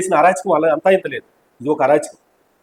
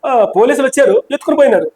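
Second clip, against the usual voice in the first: higher mock voice of the chief minister; mocking imitation; 6 semitones higher than usual. Mocking the chief minister's excuse to the reporter, in a higher mock voice. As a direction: parrot the rival's words in a higher sneering voice. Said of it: "వచ్చి ఏమంటాడు".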